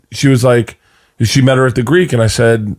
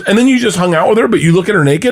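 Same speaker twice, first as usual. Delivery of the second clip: higher, quick questioning voice; imitating wife; 5 semitones higher, faster than usual. Wife grilling husband about the woman, lightly imitated. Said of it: "She goes".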